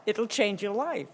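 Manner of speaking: put-on slow, light American accent; slight American accent. Quoting the ad's promise, slight American accent, slowly. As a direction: drawl out the ad line in a hint of American. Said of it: "I did a slight American accent there".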